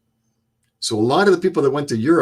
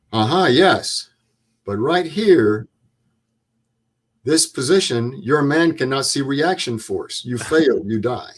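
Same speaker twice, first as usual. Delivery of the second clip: put-on patient, then damning German-accented correction; measured mock-German lecture. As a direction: imitate a German instructor pointing out the flaw. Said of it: "in his German accent".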